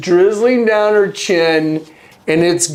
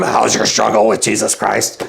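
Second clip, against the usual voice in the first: creepy question; 9 semitones lower than usual. Retold or imitated. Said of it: "she went from ... to".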